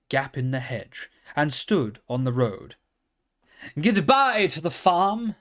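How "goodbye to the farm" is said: neighed softly. A narrator's reading. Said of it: "he neighed softly".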